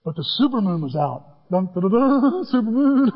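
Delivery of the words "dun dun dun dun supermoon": mock dramatic dun dun. Dramatic sting for the supermoon.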